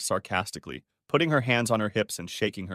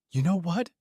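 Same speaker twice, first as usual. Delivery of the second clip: screaming; 8 semitones higher than usual. A narrator's reading. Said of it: "she screamed".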